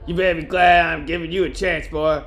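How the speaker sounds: forty-year smoker woman. Acted. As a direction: play a stern lifelong smoker, lightly. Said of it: "forty years smoking woman".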